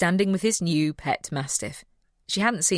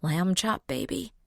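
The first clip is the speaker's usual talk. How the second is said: incredulous echo; 5 semitones higher, slower than usual. A narrator's reading. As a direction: pitch jumps up on baby in disbelief. Audrey echoes the pet name.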